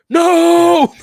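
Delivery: sudden high yelled no; mock horrified yell. Fan yelling at the TV in horror, high loud cry. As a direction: yell no like watching a player get hit. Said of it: "and I was like".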